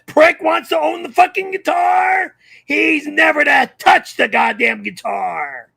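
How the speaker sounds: loud, outraged yelling rant; furious shouting. Real, not acted. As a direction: yell it in outrage. Furious rant about guitar.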